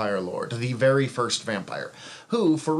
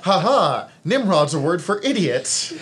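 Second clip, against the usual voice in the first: mocking crowd; 5 semitones higher, 5 dB louder than usual. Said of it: "And everyone was like".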